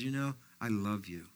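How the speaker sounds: God whispering love to the believer; gentle whisper of God. Retold or imitated. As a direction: speak it like a soft whisper from the Lord. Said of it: "he whispers and he says".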